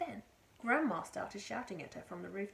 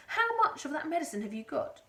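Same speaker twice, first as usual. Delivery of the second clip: higher, louder eager question; eager shout; 7 semitones higher, 9 dB louder than usual. A narrator's reading. Mister Cranky shouting to George about the medicine. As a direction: demand to know. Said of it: "Mister Cranky shouted".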